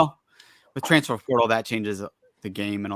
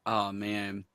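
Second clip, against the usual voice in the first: whisper; 3 semitones lower, 8 dB quieter than usual. Real, not acted. After the burn.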